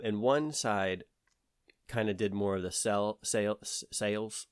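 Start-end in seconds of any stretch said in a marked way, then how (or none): 3.2-3.8 Southern accent. Real, not acted. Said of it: "I really said that in a strong Southern accent". 3.9-4.5 sales said with a strong Southern drawl; Southern accent. Real, not acted. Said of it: "I really said that in a strong Southern accent".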